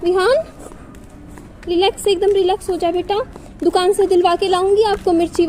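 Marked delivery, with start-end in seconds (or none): 0.0-3.1 soothing calm-down. Real, not acted. Mother calming crying son.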